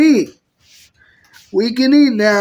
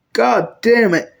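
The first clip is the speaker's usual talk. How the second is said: under-the-breath whispered swear; whispered curse; 2 semitones lower than usual. Acted. She curses to herself in a whisper after coughing.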